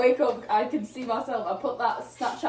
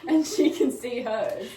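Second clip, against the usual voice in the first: slow words through laughter; laughing; 6 dB louder, slower than usual. Real, not acted. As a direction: laugh it out slowly. Laughing at own joke.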